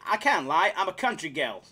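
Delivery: put-on shaky stab at a Texan country girl; half-hearted Texan accent; attempted Texan accent. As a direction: read it with a bad Texan twang. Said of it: "that was supposed to be Texan".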